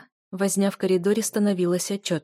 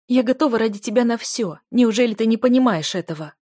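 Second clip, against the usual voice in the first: higher, louder pleading; loud plea; 4 semitones higher, 7 dB louder than usual. Acted. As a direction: beg him at full voice. Heroine pleading loudly.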